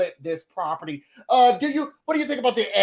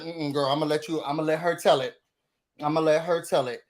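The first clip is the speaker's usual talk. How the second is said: lower, quick, teasing hold-back; coy low refusal; 5 semitones lower, faster than usual. Retold or imitated. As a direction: keep the gossip to yourself. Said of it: "Britta said".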